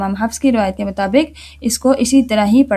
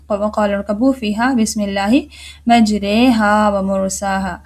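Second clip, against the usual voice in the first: Quran recitation. Shown as a demonstration. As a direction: recite the ayah with tajweed. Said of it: "सूरह हूद की आयत में".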